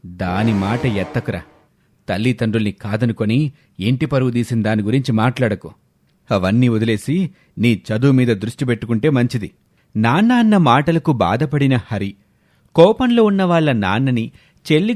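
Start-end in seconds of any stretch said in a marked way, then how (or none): 0.1-9.5 stern father. Acted. Father refusing to discuss his runaway daughter, low and stern. Father Brahmayya scolds son Hari.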